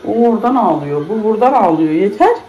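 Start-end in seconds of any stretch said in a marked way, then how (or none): 1.9-2.4 much higher and louder, at the end of her tether; fed-up outburst. Real, not acted. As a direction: cut the crying off, exasperated. Two children crying at once.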